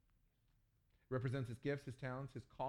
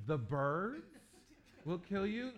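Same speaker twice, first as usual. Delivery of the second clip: much higher and louder incredulous question; shocked disbelief; 8 semitones higher, 7 dB louder, much slower than usual. Retold or imitated. Pastor reacting to his host's warning, shocked. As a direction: squeak it out in disbelief.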